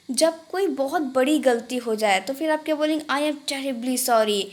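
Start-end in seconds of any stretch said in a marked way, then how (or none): 3.0-4.4 slow, careful teaching delivery; Hindi: धीरे-धीरे उच्चारण; slow model phrase. Shown as a demonstration. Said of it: "कैसे बोलेंगे".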